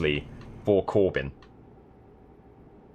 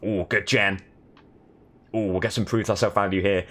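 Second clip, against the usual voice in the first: mock play-by-play gamer chatter; game commentary. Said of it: "commentating each and every play".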